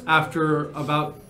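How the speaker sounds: measured game master narration; scene narration. Acted. Game master describing a journey to players, measured narration. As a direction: set the scene with deliberate pauses.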